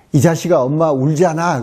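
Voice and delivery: put-on a toddler copying his dad's rough words; small boy's scolding. Three-year-old son scolds his father, lightly voiced child. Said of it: "아빠를 쳐다보면서 하는 말이".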